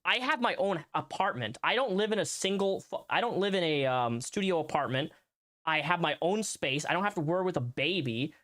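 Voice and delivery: high, fast, exasperated retelling; mock indignant rant. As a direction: mimic his own protest, rising. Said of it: "I was like".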